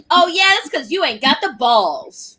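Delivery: mock-indignant sassy comeback; mad and sassy. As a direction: play them lightly sassy and put out. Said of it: "they're all mad and hella sassy".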